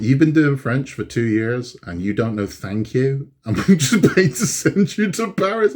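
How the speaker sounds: rising in disbelief, ending laughing and high; baffled dad, voice climbing into a laugh; exasperated disbelief. Retold or imitated. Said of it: "And I'm like".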